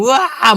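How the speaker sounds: high-pitched imitation of screaming; drawn-out mock "waaah"; mock yell. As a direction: mimic a frantic shouter. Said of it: "막 소리 지르면서".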